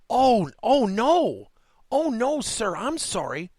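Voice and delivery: high, loud, startled oh no, sir; flustered apology. Retold or imitated. Clerk caught complaining apologizes to the customer, startled and flustered.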